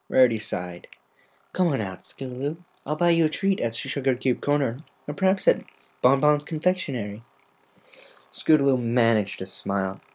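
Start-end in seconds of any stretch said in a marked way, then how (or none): 1.5-7.2 coaxing treat offer; gentle coaxing. Acted. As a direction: coax a scared filly out. Rarity coaxing.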